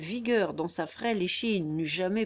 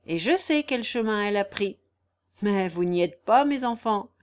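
lightly voiced crafty old countryman; sly vagabond; 4 dB louder than usual. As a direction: toy with the listeners in a mild rustic character. Raguet, sly vagabond, toys with searchers.

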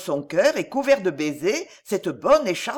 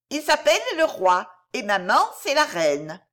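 put-on high, small childlike voice, comforting; a toddler soothing a crying friend; little girl voice; 6 semitones higher than usual. Little Violette comforting the weeping bear boy, high childlike voice.

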